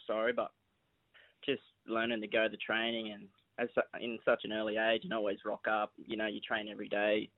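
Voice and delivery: usual speaking voice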